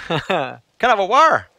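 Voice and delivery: mock Norfolk "war", T swallowed; Norfolk dropped T. Shown as a demonstration. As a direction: ask for water as "war". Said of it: "they don't pronounce T's or T H's".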